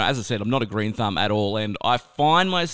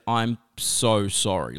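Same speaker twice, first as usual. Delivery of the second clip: sheepish apology; 4 semitones lower, slower than usual. Retold or imitated. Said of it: "I said".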